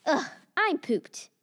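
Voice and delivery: slow, worn-out sigh of words; tired groan. Acted. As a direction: drag it out like you're exhausted. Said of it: "she was tired".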